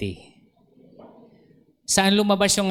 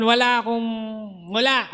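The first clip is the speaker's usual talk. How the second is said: helpless plea; 6 semitones higher than usual. Retold or imitated. Retold despairing prayer.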